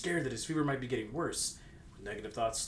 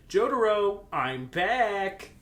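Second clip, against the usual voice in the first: louder, higher call through the house; 7 semitones higher, 7 dB louder, much slower than usual. Acted. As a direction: call out cheerfully on arriving home. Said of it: "Kakyoin called out".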